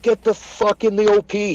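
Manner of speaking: high, urgent command; imitated battlefield yell; retold shouted order. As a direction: order a soldier to take cover. Shouted order under fire retold.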